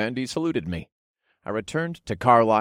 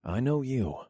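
friendly smile; 4 semitones higher, 7 dB quieter than usual. Acted. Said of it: "I explained with a friendly smile".

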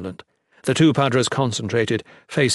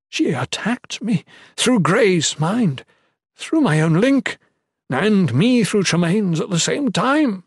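high, loud, slow anger; angry; 9 semitones higher, 5 dB louder than usual. Acted. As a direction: spit out the outrage. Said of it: "Padre Ethan added angrily".

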